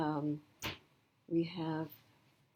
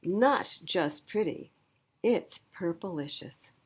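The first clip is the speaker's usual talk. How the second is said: slow, savoring; 4 dB louder, slower than usual. Acted. Classmate's closing line slowly.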